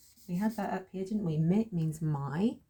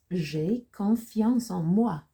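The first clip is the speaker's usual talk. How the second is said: very slow, louder French with drawn-out words; slow model reading; 3 semitones higher, 7 dB louder, much slower than usual. Shown as a demonstration. Teacher introducing sentence nine to learners, slow model reading. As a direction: stretch each French word out firmly.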